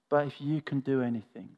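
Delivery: understated desperation; desperate father. Acted. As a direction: plead quietly, as a desperate father. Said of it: "just hear the desperation in the father's voice".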